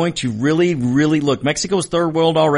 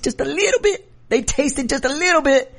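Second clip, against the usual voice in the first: mock savoring; 14 semitones higher than usual. Democrats voiced tasting power.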